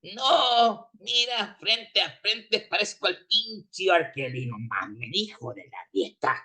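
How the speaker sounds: a fan whose team just lost, swearing at everyone; furious Mexican fan. Acted. A fan whose forty-niners lost, yelling insults in anger. Fan complains he looks like R. Kelly.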